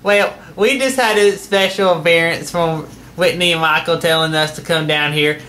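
Uncle Jim Bob voice. Acted. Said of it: "my Uncle Jim Bob".

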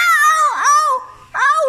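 sharp loud ow cries; loud yelps. Real, not acted. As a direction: yelp out loud in pain. Being bitten, cries out.

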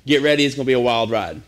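fast, playful mock angel news; excited announcement. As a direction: blurt it out like big news. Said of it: "So the angel just said".

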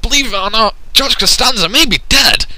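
hammed-up grief. Commentator mock-mourning George Costanza, hammed-up grief. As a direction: mourn him over the top.

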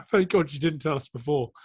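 laughing through a retold line; relieved teammates' quote. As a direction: voice the relieved new lads with a laugh.

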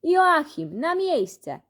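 high, loud bossy yell at a classmate; shouting. Acted. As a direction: bark the order across the room, high and loud. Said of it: "który krzyczał".

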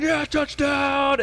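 high, slow, stretched-out cheer; mock touchdown cheer. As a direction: cheer the touchdown like a fan on the couch. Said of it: "my adrenaline was going".

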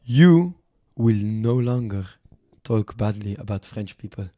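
hammy French negotiator; put-on French accent. French envoy dictating deal terms to podcast hosts, French accent. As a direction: lay down terms in a mock French accent, pausing between phrases. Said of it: "Fuck this French accent".

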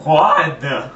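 garbled prank caller; muffled, hard to understand. Pretend. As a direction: prank call through a muffled voice. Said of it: "I can't understand you very well".

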